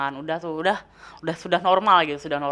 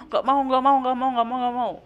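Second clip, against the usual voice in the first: high-pitched wailing refusal; hammed-up bawling, pitched way up; mock crying; 6 semitones higher than usual. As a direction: imitate a child's rapid tearful protest. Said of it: "Gue nangis".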